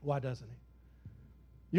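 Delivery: Why doesn't he? dropped low, soft and very slow; quiet, slow question. Shown as a demonstration. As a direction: pull it back to a hush and let it hang. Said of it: "Y'all tell me".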